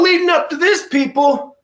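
breathless, gasping between phrases; out of breath. Real, not acted. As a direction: talk while short of breath. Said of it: "I'm out of breath".

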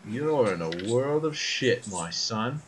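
slow, leaning in with a threat; menacing interrogator. Acted. Interrogator gripping captive's face, slow menacing taunt. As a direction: savour each word over the prisoner.

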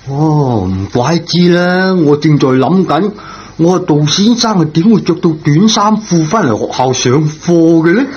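high and puzzled, gently teasing; a janitor amazed at the teacher's short clothes, surprised. Acted.

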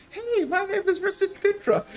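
high-pitched cheery mimicry; very cheerful. Game master mimics the player's character calling up, very cheerful. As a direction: chirp it in a put-on high voice. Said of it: "very mumble, very cheerful".

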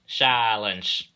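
loud, authoritative bark; commanding order. A narrator's reading. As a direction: cut them all off with one shout. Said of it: "ordered a well-known voice".

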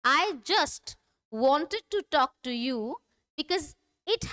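very slow, spaced-out teacher reading; word-by-word reading. Shown as a demonstration. Teacher has learners read the board, slow word-by-word. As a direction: read it slowly, word by word, with pauses. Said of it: "word forward पढ़िए".

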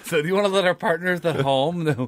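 repeating the line through giggles; laughing. Real, not acted. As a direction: say it while giggling.

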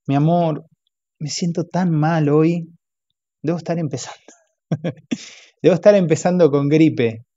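lightly acted sick husband begging; pitiful whining husband. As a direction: whine to win her sympathy. Robert whines for pity.

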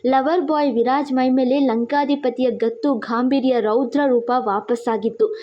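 ordinary delivery

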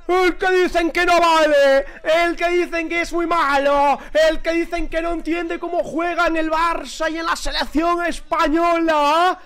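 high, rising to a shouted finish; excited defiant shout. Real, not acted. Defending the scorer after goal.

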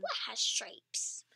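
hushed and slow, puzzling it out; whispered wondering. Real, not acted. Child whispering a hint to viewers, hushed. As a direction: whisper the question like a secret clue.

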